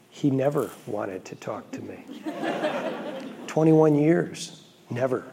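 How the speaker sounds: chuckling through the words; laughing. Real, not acted. Laughing at the irony.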